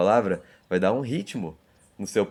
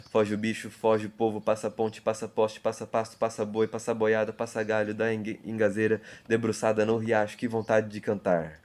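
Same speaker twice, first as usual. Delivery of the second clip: poem reading. Shown as a demonstration. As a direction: recite it like a train rolling along. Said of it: "Ele começa assim".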